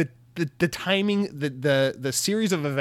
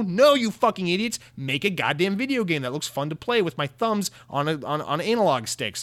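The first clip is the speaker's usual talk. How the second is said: fed-up yell; 4 semitones higher than usual. Retold or imitated. Fan snapping at Ubisoft, exasperated yell. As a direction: blow up at them, sick of it.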